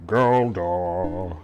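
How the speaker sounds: slow, loud sing-song voice; a dim-witted hero in sing-song; sing-song Galdar. Acted. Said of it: "will have a sing-song voice and not be too smart".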